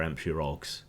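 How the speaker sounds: "Ampshire Ogs" with both H sounds left off; dropped H. Shown as a demonstration. Showing viewers the local Hampshire way, both H's dropped. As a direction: drop the H on each word of "Ampshire Ogs". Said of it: "we drop our A's".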